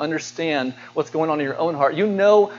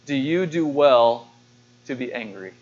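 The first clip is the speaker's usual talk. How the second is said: gentle question from God; 5 semitones lower than usual. Retold or imitated. God's gentle question quoted.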